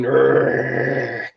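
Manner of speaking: long rolled growl; imitated head-to-head growl. Fan imitating robots going head to head, growl. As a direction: growl like two rivals straining. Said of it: "they're just going".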